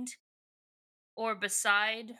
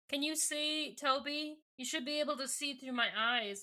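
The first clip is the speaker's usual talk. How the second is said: softer, gently coaxing voice; calmed down; 4 semitones higher, 3 dB quieter than usual. Retold or imitated. Cassie asking Aldrea to look through her eyes, calmer. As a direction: settle down and coax gently. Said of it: "she kinda calms down".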